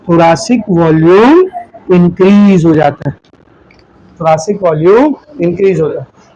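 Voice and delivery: drawn-out, deliberate phrasing; slow dictation. Real, not acted. Teacher gives students the key phrase, slow and measured. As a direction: stretch each key term, pausing between.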